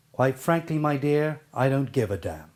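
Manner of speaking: "damn" thrown away at the end, falling off; misplaced emphasis. Shown as a demonstration. Coach quoting the famous film line, misplaced emphasis with "damn" dropped. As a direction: let "damn" drop away as the line falls. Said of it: "the right way of pronouncing that sentence".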